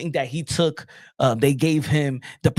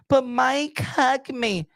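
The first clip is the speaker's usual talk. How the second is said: pleading woman; 8 semitones higher, much slower than usual. Pretend. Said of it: "And maybe Mike Tyson say".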